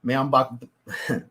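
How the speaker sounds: slow, flat Cajun accent; authentic Cajun accent. Shown as a demonstration. Trying how it should sound, authentic Cajun accent. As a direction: start it in an easy South Louisiana Cajun accent. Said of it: "let me try".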